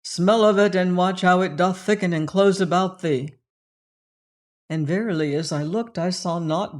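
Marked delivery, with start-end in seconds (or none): 0.0-3.3 louder, ordering tone; booming ritual command. Acted. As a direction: command the listener like a shaman. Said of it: "his voice suddenly loud and commanding".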